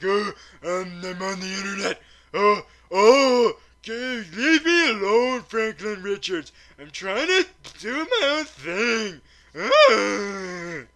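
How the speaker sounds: high, loud, petulant whine; mock a sulking troll wailing to be left alone; whiny internet troll. Doctor Doom telling Franklin Richards to go away, whiny troll outburst. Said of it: "just an internet troll. He's like".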